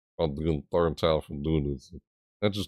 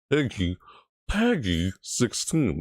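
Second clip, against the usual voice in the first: slow rating announcer; 3 semitones higher, slower than usual. Retold or imitated. Mimicking trailer rating voice-over.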